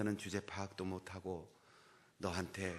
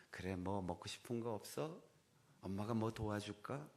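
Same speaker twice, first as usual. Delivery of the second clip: put-on softly offering the children a treat; gentle, kind mom voice, a little softer; tender mother; 3 dB quieter than usual. Mother to her children, tenderly offering help. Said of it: "그렇게 다정다감하게".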